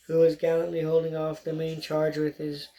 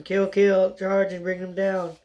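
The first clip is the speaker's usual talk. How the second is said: screaming; 2 semitones higher, 3 dB louder than usual. Acted. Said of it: "Gulu was screaming".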